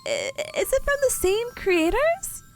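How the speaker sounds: giggly wait wait; laughing surprise. Real, not acted. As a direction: laugh while catching on. Realizes game connection, laughing.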